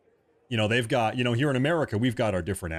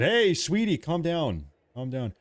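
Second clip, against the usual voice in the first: pleading husband; 7 semitones higher, slower than usual. Retold or imitated. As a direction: play a husband trying to settle his wife. Acts himself soothing angry wife.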